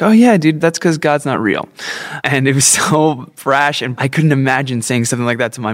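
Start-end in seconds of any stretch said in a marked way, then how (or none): 0.0-1.7 tossing it off like it's obvious; imitating Bo. Friend Bo dismissing religion, as a higher, breezy dude. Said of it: "And Bo would be like".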